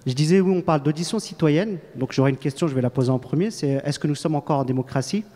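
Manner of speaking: speaking up clearly. Real, not acted. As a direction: project clearly through the mask. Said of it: "parlez plus près du micro, plus distinctement".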